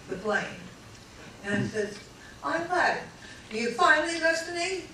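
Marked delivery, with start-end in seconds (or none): 2.4-4.8 mock scolding. Wife scolding husband.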